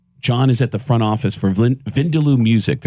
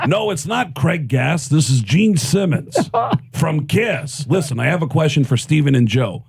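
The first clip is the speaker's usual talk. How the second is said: real Gene Simmons voice; 6 semitones higher than usual. Retold or imitated. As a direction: calmly correct him as the star. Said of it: "He goes".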